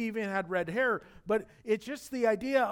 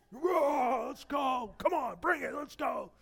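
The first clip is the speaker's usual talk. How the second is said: playful taunt; 7 semitones higher than usual. Acted. Taunting kids on the court.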